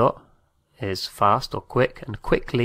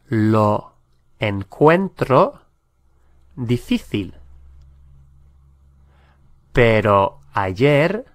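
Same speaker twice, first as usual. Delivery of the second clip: slow, word by word, with long gaps; slow, broken-up model sentence. Shown as a demonstration. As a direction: say it slowly, one chunk at a time so learners can follow. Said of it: "teacher models the sentence twice".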